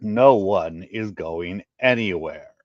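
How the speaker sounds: slow, commanding call to the crowd; firm loud call. Acted. Turek calling out to calm the crowd. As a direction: plant your feet and command the room. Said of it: "in as loud a voice as he could".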